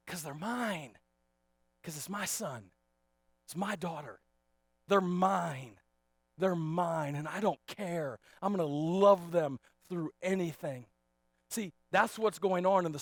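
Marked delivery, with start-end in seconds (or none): 0.1-10.9 hushed, heartfelt declaration of a parent; tender. Real, not acted. Tender answer about own children.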